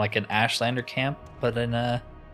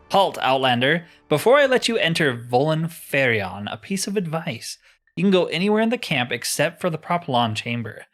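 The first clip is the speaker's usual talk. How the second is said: a touch of a stern sentry's warning; lightly voiced stronghold guard; 3 semitones higher, 4 dB louder than usual. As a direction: read it as a guard challenging an outsider. Reads guard's warning aloud.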